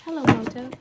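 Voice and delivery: jingle voice. Pretend. Quoting old phone jingle.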